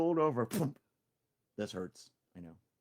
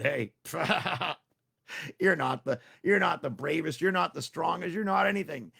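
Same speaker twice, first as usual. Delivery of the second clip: laughing tease; 5 semitones higher, 6 dB louder than usual. Acted. Friends laugh at Tricky.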